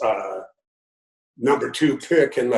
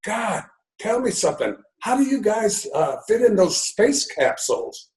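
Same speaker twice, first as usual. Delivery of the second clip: put-on high gushing old lady voice, pitch way up; elderly lady; 9 semitones higher than usual. Retelling a fan meeting to the interviewer, in a high old lady voice. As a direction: squeal like a starstruck old fan. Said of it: "she says".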